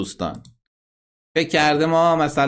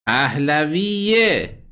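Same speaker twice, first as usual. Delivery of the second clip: slow, drawn-out پهلویه with the final یه clearly said; correcting the ending; 2 semitones higher, much slower than usual. Shown as a demonstration. Host to callers on the chant's last verb, slow corrective demo. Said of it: "فعل آخر رو درست بگید".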